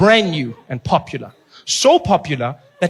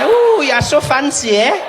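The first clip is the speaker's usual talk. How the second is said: slow, higher, louder mock-impressed gasp; impressed woman; 8 semitones higher, 4 dB louder, slower than usual. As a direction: coo like she's dazzled by the escalator. Mock reply to pickup.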